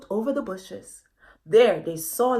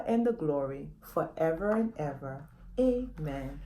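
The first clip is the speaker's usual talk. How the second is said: prayer. Acted. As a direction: lead the children through it calmly. Leads the children in prayer.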